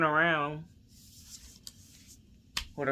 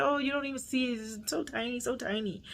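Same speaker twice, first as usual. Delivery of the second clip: high, soft mimicking voice; mock reassurance; 8 semitones higher, 6 dB quieter than usual. Quoting everybody on tiny needles, in mocking high reassurance. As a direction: mimic them in a small, high voice.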